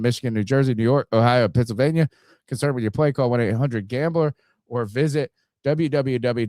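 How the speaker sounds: brisk sponsor ad read, disclaimers rattled off fast. Acted. Host reading the Underdog ad to listeners, brisk ad read. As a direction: sell the app, then race the fine print.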